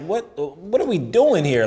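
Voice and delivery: acted-out slow, upset complaint. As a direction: drag out the question, fed up. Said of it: "I'm getting upset".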